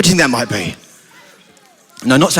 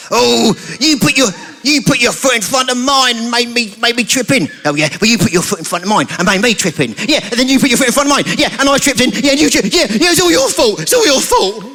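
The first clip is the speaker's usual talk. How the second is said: squabbling eggs; 4 semitones higher than usual. Acted. Two eggs quarrelling.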